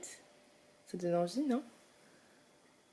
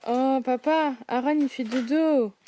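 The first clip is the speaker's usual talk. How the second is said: playful sing-song; 4 semitones higher, 5 dB louder than usual. Real, not acted. Playful voice for baby.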